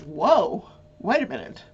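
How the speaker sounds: stunned juror, sinking into a whisper; imagined juror. Pretend. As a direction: gossip as a shocked juror, fading to whispered wondering. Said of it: "So now the jury's going".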